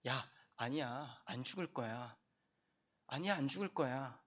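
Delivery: soft tempting serpent; devil whispering. Acted. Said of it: "그 틈새를 마귀가 노리지".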